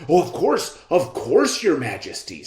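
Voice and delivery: fawning swindlers. Acted. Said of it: "said the men".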